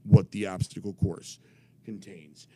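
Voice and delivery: lightly imitated official laying down facts; a hint of officious gravity; authoritative commissioner. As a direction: insist like a by-the-book commissioner. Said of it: "I'm doing his voice".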